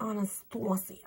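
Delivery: "Anastasia" as ah-nuh-STAH-see-uh; famous people's pronunciation. Shown as a demonstration. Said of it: "famous people say Anastasia".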